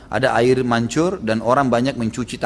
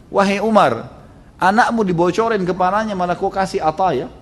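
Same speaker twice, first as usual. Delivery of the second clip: wife scolding; 6 semitones higher than usual. Acted. Umar's wife calls out from inside, indignant and scolding. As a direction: scold him for rewarding the wrong.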